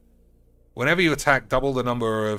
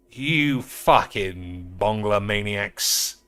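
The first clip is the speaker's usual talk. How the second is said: exasperated insult; much slower than usual. Real, not acted. Disgusted insult after outburst.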